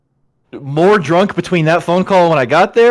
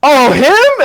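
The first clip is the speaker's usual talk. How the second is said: surprised; 9 semitones higher, 5 dB louder than usual. Retold or imitated. Bartender recognizes dad's name.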